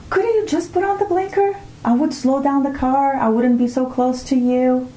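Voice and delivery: high-pitched irritated thought, not said aloud; peeved inner voice. Retold or imitated. Driver fuming silently at the car ahead, mock peeved. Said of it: "Now I think it in my head".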